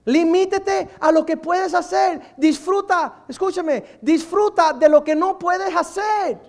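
loud, slow, emphatic exhortation; preaching shout. Real, not acted. Preacher urging the congregation to enjoy, loud and slow. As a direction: drive each word home to the congregation.

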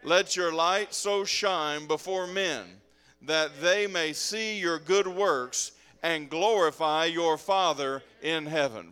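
slow, measured verse reading; scripture read aloud. Acted. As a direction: lead the room slowly through the verse. Leads congregation reading aloud.

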